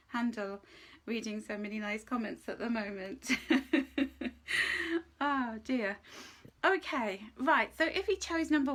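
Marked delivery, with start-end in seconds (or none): 3.3-5.1 a short high laugh through tears; tearful laugh. Real, not acted. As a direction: laugh it off, a little overwhelmed. Overwhelmed by nice comments.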